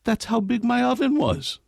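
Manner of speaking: put-on high, sweet and guileless old lady; playing the grandmother as innocent. Grandmother answering her grandson-in-law, high and innocent. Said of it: "with innocent eyes and said".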